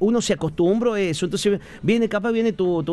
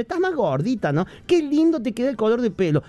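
gossiping aunt; 4 semitones higher than usual. Retold or imitated. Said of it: "Esa tía, toda su vida, siempre".

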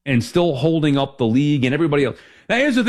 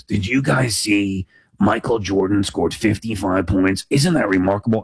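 imitated English teacher; 8 semitones lower than usual. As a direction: stretch it out like a teacher marveling to the class. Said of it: "she used to talk like this".

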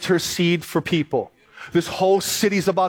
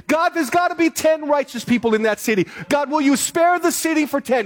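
rising, urgent plea to God, a bit higher; pleading Abraham; 4 semitones higher than usual. Retold or imitated. Preacher voicing Abraham begging God for the city. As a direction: beg God like Abraham bargaining.

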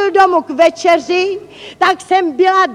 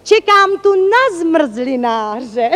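slow, mock-tender explanation; sweetly drawn-out deadpan; tenderly; slower than usual. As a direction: answer gently and unhurriedly, all innocence. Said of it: "odpověděla jsem něžně".

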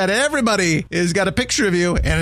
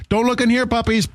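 mock bag voice; 5 semitones higher than usual. Voicing bag to police dogs.

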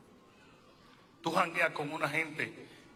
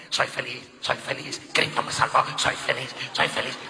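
mock declarations; 3 semitones lower, 6 dB louder than usual. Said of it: "haciendo declaraciones".

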